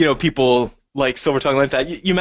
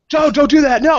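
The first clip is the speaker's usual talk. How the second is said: high, pleading no; hammed-up plea; mock pleading; 12 semitones higher, 5 dB louder than usual. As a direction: beg him to stop, pitched high. Players pleading with drunk.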